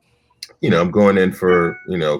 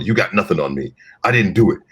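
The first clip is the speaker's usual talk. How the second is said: lightly acted defiant suspect, pitched up; audition suspect; 4 semitones higher than usual. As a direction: protest innocence like a crook in an audition. Acting out typecast audition lines.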